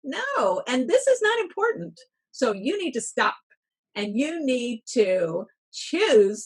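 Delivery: firm inner coach setting yourself straight; self-scolding pep talk. Retold or imitated. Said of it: "and said to myself".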